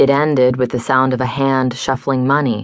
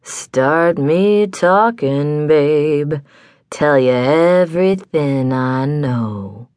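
slow whiskey-soaked growl; growling blues singer; slower than usual. Acted. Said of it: "growled a whiskey-soddened blues singer".

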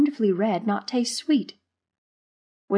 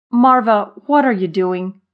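loud name, then falling question; exasperated scolding; 2 semitones higher, 8 dB louder than usual. A narrator's reading. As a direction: pull a careless friend up sharply. Exasperated Zimmer scolds Marva.

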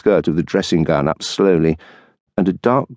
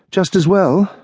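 higher, lightly voiced wife, tart; dry retort as the wife; wife's voice; 12 semitones higher than usual. Wife waiting up for her husband, tart retort.

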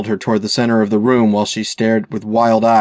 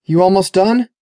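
higher-pitched call through a door; hollered question; 9 semitones higher, 3 dB louder than usual. A narrator's reading. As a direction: call out to someone in another room. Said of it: "went to the men's room door and hollered".

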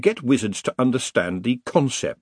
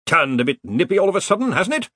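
higher, quick, offhand remark on the cold; chilly remark; 9 semitones higher, faster than usual. A narrator's reading. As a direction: toss it off as the air freezes. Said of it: "his breath tingling in the frigid air".

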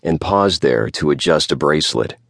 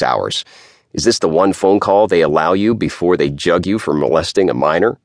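nasal lawyer voice; 2 semitones higher than usual. Acted. Isher character voice.

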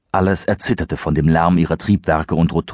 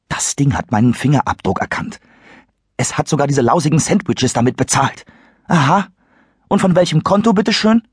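agitated Christopher; 9 semitones higher than usual. Acted. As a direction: press the question home. Christopher arguing with Serenity.

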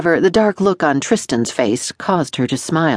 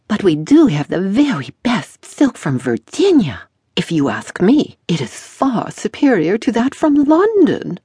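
fussy dressmaker; 7 semitones higher than usual. A narrator's reading. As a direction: play the pompous tailor fawning over his customers. Fussy dressmaker voiced in story.

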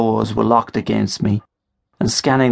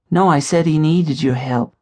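put-on young woman; 6 semitones higher than usual. A narrator's reading. Katie correcting him.

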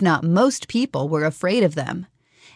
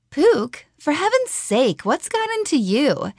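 exasperated call; 9 semitones higher than usual. Acted. Calling to the vanished bear.

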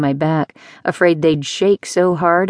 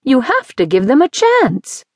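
higher, louder urging; Mimsy urging Gus, higher and louder; insistent; 8 semitones higher, 4 dB louder than usual. Acted. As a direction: push him to give them a chance.

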